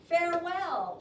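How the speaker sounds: high, loud farewell; called-out farewell. A narrator's reading. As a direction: call it out to departing friends. Reads the farewell in the poem.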